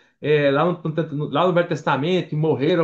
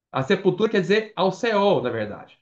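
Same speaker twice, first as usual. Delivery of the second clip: normal talking voice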